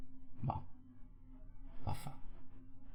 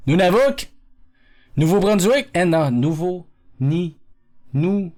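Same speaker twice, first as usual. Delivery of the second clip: Nunavuk said higher and louder, rising; louder questioning; 5 semitones higher, 3 dB louder than usual. Shown as a demonstration.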